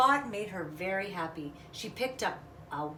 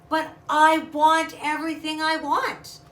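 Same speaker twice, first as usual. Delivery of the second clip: put-on much higher and louder childish whine; whiny insistence; 8 semitones higher, 11 dB louder than usual. Little bunny arguing with her sister, loud and whiny.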